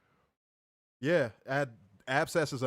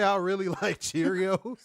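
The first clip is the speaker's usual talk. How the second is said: slow high slurred mimic; mock numb-jaw voice; 5 semitones higher, 4 dB louder than usual. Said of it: "Did you say".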